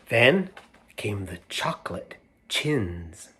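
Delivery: lively read-aloud storyteller; animated picture book reading; reading to children. A narrator's reading. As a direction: read it out to a room of kids.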